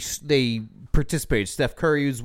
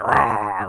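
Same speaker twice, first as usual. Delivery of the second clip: retold roar; 6 semitones lower, 3 dB louder than usual. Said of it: "screaming and yelling at it".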